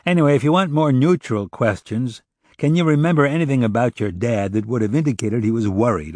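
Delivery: questioning investigator. Acted. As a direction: put the question to the witness. Narrator voices Oliver questioning.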